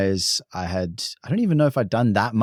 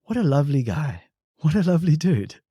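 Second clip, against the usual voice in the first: fond; 5 semitones higher than usual. Retold or imitated. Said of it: "look in and go".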